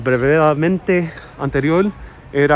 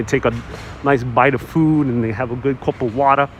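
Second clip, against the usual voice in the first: put-on old-school New York movie accent; lightly put-on Flatbush New York speech. Shown as a demonstration. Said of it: "stereotypical kind of old New York accent".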